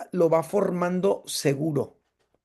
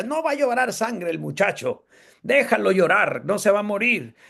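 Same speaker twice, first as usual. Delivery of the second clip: grandma's voice; 4 semitones higher than usual. Retold or imitated. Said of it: "mi abuelita, que decía".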